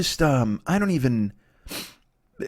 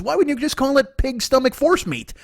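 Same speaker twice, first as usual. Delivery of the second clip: incredulous caveman; 10 semitones higher than usual. Acted. Caveman questions the name.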